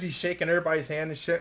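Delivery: usual speaking voice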